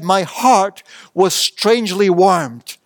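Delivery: said slowly, dwelling on "heart"; slow savoured quote. Shown as a demonstration. The preacher quoting John Wesley, slow and savoured. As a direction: let "My heart was strangely warmed" unfold slowly, each word savoured. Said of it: "he said".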